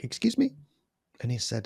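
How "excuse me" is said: pitched way up in disbelief, excuse me; a stunned, high Excuse me?; incredulous. Retold or imitated. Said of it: "And I was like".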